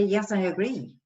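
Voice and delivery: put-on cruel friend; mock agreement. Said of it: "Would you say".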